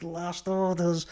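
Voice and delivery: slow, laughing last-orders call; laughing mock pub call; mock landlady. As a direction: play a drugged-up landlady calling time. Imagined landlady calling time.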